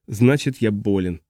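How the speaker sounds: ordinary delivery, nothing marked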